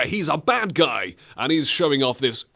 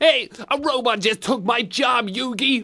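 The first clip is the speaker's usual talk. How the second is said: put-on very high pitch with a light Bronx accent; 10 semitones higher than usual. Riffing on a show, a speaker voices Joey talking to Yugi, slight Bronx accent. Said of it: "It sounds like it's got a slight Bronx accent".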